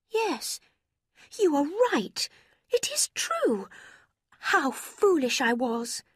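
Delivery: put-on high, softening regretful girl; regretful young woman. A narrator's reading. Marianne admitting fault.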